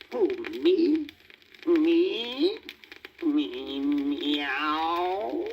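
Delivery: high, rising surprised squeaks; cat caught off guard, flattered. Acted.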